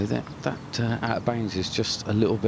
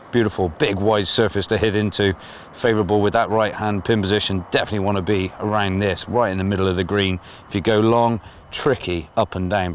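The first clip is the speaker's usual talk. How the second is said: shouting over noise; 5 dB louder than usual. Real, not acted. Shouting over flying drone noise.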